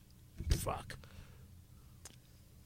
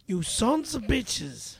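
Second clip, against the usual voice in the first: slow cursing impression; Joe Pesci; slower than usual. Shown as a demonstration. Impressionist answers host's request, Joe Pesci. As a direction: draw the curse out slowly. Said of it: "Joe Pesci".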